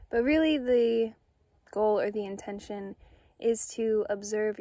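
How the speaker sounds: calm, unhurried meditation guide with long pauses; soothing, measured guided-meditation delivery. Acted. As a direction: gently guide listeners inward, leaving space after each phrase.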